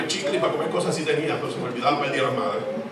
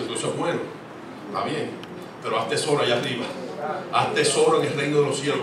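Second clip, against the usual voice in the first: God speaking gently; 4 dB quieter than usual. Acted. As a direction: let God answer quietly and kindly. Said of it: "El Señor te dice".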